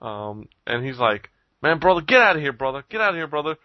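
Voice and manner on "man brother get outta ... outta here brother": lightly acted dismissal, pitched up; mock shooing off. Passerby to the man working the line, mock shooing off. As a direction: imitate a passerby waving off a pest. Another man shoos the hustler off.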